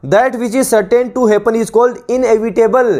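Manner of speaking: slow, deliberate reading of a definition for students to copy; measured classroom dictation, every word spaced; dictation pace. Shown as a demonstration. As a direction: read it out word by word like a teacher dictating.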